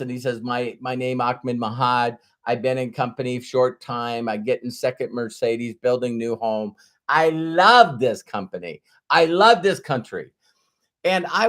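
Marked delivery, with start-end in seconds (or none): 0.4-10.3 imitating a Middle Eastern speaker's broken English; retold speech in a Middle Eastern accent, building on "love". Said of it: "he's from Middle East".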